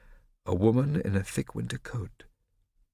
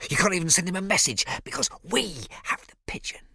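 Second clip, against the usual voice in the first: gloating taunt; 11 semitones higher, 4 dB louder than usual. Acted. Riccio taunting Scipio.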